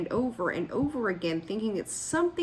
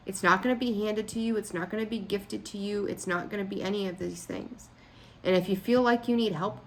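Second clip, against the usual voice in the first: normal talking voice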